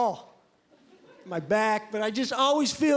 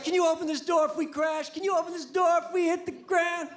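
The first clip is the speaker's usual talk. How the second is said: raised, high-pitched mock attendant question; flight attendant; 7 semitones higher than usual. Flight attendant pressing the exit-row passenger, mock high voice. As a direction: play a pushy attendant asking twice. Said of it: "they're like".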